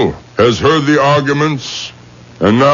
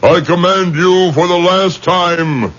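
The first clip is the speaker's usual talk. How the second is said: solemn command; 4 semitones higher than usual. Acted. Rabbi commands the spirit to leave.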